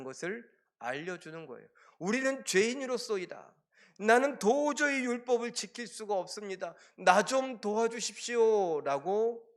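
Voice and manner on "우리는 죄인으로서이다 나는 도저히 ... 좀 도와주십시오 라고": crying out. Retold or imitated. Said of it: "외치게 만듭니다".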